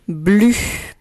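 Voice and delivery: syllable dictated loud and clear; dictation. Shown as a demonstration. Teacher dictating the first syllable to pupils, dictation voice. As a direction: say BLU as one isolated, carefully projected syllable. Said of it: "Je répète".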